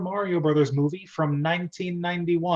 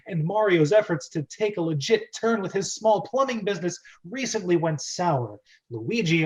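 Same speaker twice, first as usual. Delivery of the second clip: trailer-style dramatic recap narration. Acted. Host giving the dramatic recap, trailer style. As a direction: build it like a movie trailer. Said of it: "I'm gonna try to be as dramatic with it as possible".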